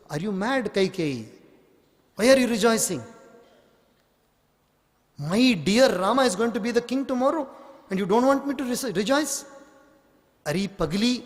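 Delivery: a hint of a goading servant, pitch climbing; scolding maid. Manthara scolding the queen, rising mock outrage.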